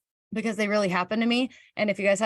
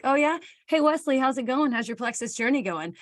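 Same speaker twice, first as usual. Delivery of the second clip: retold breezy check-in; 5 semitones higher than usual. Retold chirpy small talk question.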